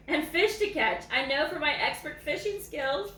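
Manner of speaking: lively read-aloud voice, savouring each line; story reading. A narrator's reading. Reading a dog's story to viewers, lively read-aloud.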